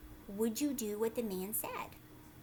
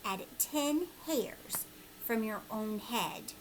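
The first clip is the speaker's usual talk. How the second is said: whispered slowly, step by step; hushed, slow whisper of a magic step; slow secretive whisper; slower than usual. Acted. Old man's secret instruction.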